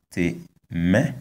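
temere, pitch lifting on the second syllable; high middle tone. Shown as a demonstration. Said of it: "high tone is on the vowel of".

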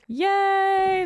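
high, bright yay; excited cheer. Real, not acted. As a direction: cheer it like you just won. Cheering at finished setup.

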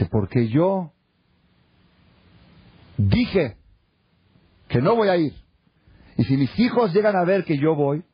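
high, emphatic imitation with pauses; stubborn insistence. Stubborn brother defending his word to the rabbi, emphatic.

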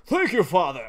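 a thank you that slips into a laugh; thanks with an accidental chuckle. Acted. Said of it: "I didn't mean to say it like that".

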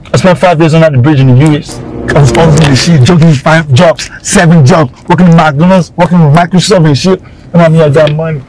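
put-on bragging in an affected American accent. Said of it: "Èwo ni accent, accent àpàpàǹdodo?".

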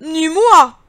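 high, loud turkey squawk. Acted. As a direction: gobble it out like a turkey. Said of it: "glouglouta le dindon".

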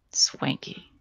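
whispered under his breath; a breathy aside nobody is meant to hear; muttered. Acted. Naylor mutters at the rich girl in a whisper. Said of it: "Naylor muttered".

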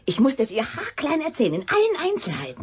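hushed, secretive telling; confiding whisper. Acted.

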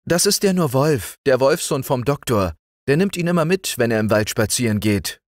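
put-on high, bright child voice; cheerful young girl talking, pitched well up; little girl Liesel. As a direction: speak up like a fearless little girl. Liesel explains the barking dog.

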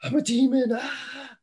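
high, strained mock demon wail; a cartoonish shrieking demon voice; screeching demon. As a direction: ham up a writhing demon. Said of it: "demons screaming and writhing".

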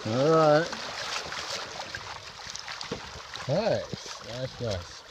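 muffled, talking around a phone; phone in mouth. Real, not acted. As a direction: speak with a phone between your teeth. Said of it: "I gotta hold my phone in my mouth".

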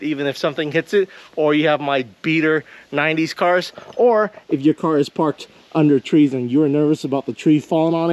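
steady, emphatic video sponsor pitch; upbeat host-read advertisement. Acted. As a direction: sell it straight to the viewers. Reads sponsor segment.

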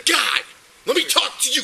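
loud, furious commands at the man; angry shouting. Real, not acted. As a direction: shout him down, real anger. Officer yelling at arrested man.

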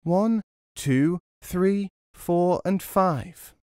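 high little echo of the count; mocking echo. A narrator's reading. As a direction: mimic the robber's count from hiding. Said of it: "started to repeat the robber's words".

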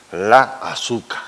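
"la azúcar" as "la asuca"; Canarian dropped R. Shown as a demonstration. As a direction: leave off the final R of "azúcar". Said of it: "no le ponemos ni la R".

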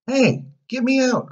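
high, loud cry for help; trapped boy yelling to be freed; calling out. A narrator's reading. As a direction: call out from a locked cage. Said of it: "called Pinocchio".

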